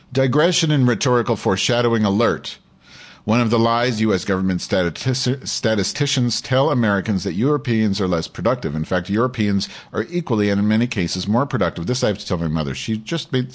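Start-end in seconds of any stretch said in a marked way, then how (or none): 0.1-11.9 lightly heightened reading voice, a bit more lift than his asides; article read aloud. Acted. Host reading an article to his audience, lightly dramatic read. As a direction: read the op-ed out like a column on air.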